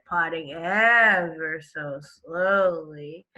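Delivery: slow stressed reading. Shown as a demonstration. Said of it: "because the author says".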